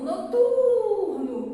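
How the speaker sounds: Noturno called loud with a long TUR; high, drawn-out hailing call. Shown as a demonstration. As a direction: call it out, stretching the stressed syllable. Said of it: "Chama a palavra noturno".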